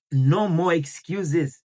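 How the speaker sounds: slow, firm, no-nonsense. Real, not acted. Teacher telling viewers to stop making excuses, slow and firm. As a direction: lay down the challenge deliberately.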